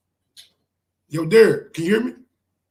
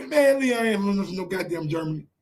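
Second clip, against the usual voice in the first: ordinary talk, nothing marked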